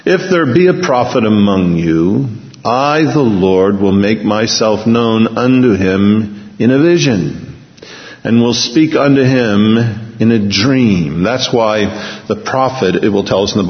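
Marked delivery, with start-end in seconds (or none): 0.1-11.2 scripture reading. Acted. Reads scripture aloud.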